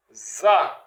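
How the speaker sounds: za, a plain Z sound; la lettre za comme Z; demo sound za. Shown as a demonstration. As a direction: say za like the letter Z. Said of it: "Ça, c'est za".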